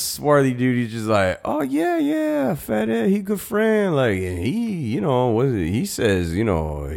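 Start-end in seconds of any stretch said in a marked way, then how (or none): 1.4-6.9 put-on high, hammy Mexican accent. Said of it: "is that your Mexican accent".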